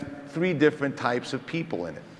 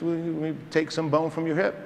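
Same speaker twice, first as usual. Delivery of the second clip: imitating a South African colleague, pitched up; casual South African surgeon, higher voice; lightly imitated South African accent; 5 semitones higher than usual. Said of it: "he has that great South African accent".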